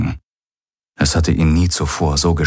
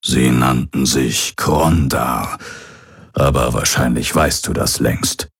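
lightly voiced old pirate, a touch lower and heavier; old pirate's recorded message; 4 semitones lower than usual. Hologram of the old pirate addressing his son, lightly voiced. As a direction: speak as the aging pirate father leaving a last message.

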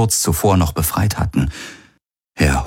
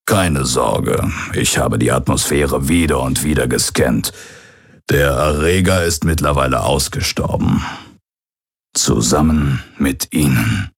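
lightly voiced old pirate, a touch lower and heavier; old pirate's recorded message; 3 semitones lower than usual. Hologram of the old pirate addressing his son, lightly voiced. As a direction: speak as the aging pirate father leaving a last message.

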